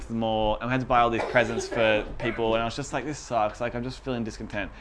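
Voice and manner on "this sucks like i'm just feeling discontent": whiny complaining. Retold or imitated. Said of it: "like, I'm a little whinging little child".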